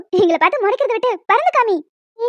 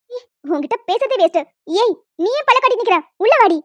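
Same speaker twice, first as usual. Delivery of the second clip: angry mother. Acted. Mother calling the child inside, angry. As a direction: snap at the child.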